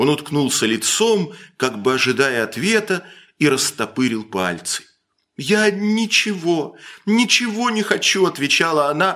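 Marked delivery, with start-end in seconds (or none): 5.4-8.3 high, slow, halting stammer. A woman answers the man who says he cannot marry her, stammering. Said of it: "заикаясь".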